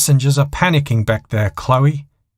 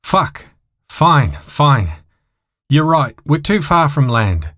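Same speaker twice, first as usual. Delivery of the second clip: frustrated; 6 semitones higher than usual. A narrator's reading. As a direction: give in with a curse. Pilot frustrated giving in.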